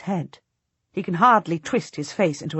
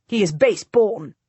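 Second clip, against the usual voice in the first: by rote; 3 semitones higher, 4 dB louder than usual. Acted. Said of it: "as someone repeating a lesson by rote".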